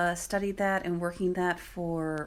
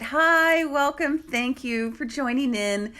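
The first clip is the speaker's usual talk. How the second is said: excited greeting; 6 semitones higher, 5 dB louder than usual. Real, not acted. Greeting live viewers joining.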